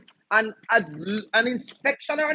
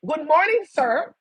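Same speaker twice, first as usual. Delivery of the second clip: bright, raised formal greeting; polite greeting demo; 6 semitones higher, 3 dB louder, slower than usual. Shown as a demonstration. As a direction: greet like a courteous constable.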